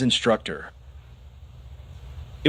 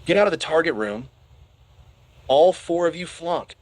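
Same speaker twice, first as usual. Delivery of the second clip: bellowing; 6 semitones higher than usual. A narrator's reading. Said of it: "bellowing at the top".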